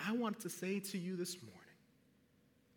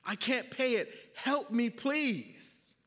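louder, higher desperate begging; pleading debtor; 5 semitones higher, 6 dB louder, slower than usual. Acted. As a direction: beg the king for your life. Debtor begs the king.

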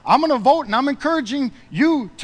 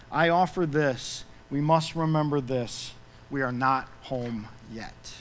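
lyric recitation; 4 semitones lower than usual. Real, not acted. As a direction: recite it like a tender closing verse, slowing at the end. Quotes song lyrics as a reading.

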